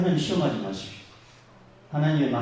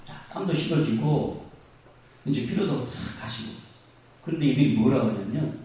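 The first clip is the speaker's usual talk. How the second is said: ordinary talk, nothing marked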